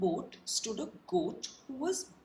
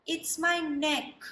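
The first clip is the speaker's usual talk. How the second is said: giraffe voice; 7 semitones higher than usual. Acted.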